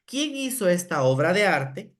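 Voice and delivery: elogio alegre, un poco más fuerte; pregunta amable. Retold or imitated. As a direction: pregunta como quien celebra un dibujo. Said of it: "y yo digo". (maestra pregunta con cariño al niño)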